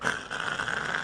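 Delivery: unvoiced grinding noise made with the mouth; imitated meat grinder. Speaker mimics the meat grinder for the team, grinding noise.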